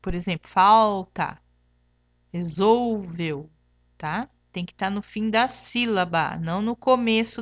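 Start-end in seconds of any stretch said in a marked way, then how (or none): 0.5-1.4 "falta" loud, leaning hard on the first syllable "fal"; sounded-out syllable. Shown as a demonstration. Teacher shows pupils the L sound, "falta" stressed on "fal". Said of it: "tem que ter o som de". 2.3-3.5 "resolveu" slow, dwelling on the middle syllable "sol"; sounded-out syllable. Shown as a demonstration. Teacher shows pupils the L sound, "resolveu" slowly stretched on "sol". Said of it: "tem que ter o som de".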